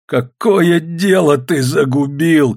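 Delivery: slow, drawn-out furious cry, stress on дело; wailing angry shout. A narrator's reading. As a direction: drag out the accusation, hitting дело. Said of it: "кричал Жеребцов".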